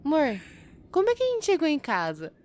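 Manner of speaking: a lightly voiced hungover husband who remembers nothing; wife retells his confused morning question; dazed husband. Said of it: "Aí fala assim".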